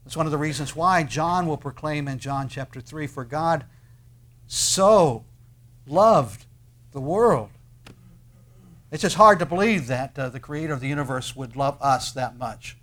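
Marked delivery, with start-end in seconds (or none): 3.1-7.5 a preacher's swelling cry of God's love; 1 emphatic proclamation. Real, not acted. 8.9-10.2 1 exclaimed wonder. Real, not acted.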